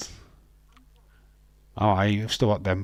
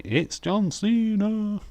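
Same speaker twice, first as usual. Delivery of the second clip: much higher, slow, weary drawl of the name; exasperated; 11 semitones higher, slower than usual. Real, not acted. Fan fed up that John Cena opens the show, exasperated.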